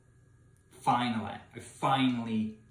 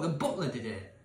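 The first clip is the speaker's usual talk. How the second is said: ordinary talk, nothing marked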